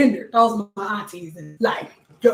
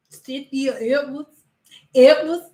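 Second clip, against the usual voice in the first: trying to say Edwards sexy. Shown as a demonstration. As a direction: try to make Edwards sound sexy. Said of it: "you can't say Edward sexy".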